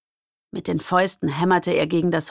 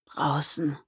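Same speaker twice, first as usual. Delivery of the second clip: voiceless, lower whisper; 3 semitones lower, 6 dB quieter than usual. A narrator's reading. Wounded boy warns the group, voiceless whisper. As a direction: let the word fall out on breath. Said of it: "flüsterte er".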